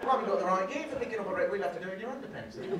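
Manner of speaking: fast, loud, giggling excuse; laughing through the line. Retold or imitated. Comic voicing the teacher's excuse while laughing, fast and loud.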